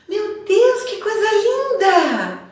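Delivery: astonished delight, high and loud, drawn out; surprised exclamation. Shown as a demonstration. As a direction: gush it like you just saw something stunning. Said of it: "elas podem indicar surpresa".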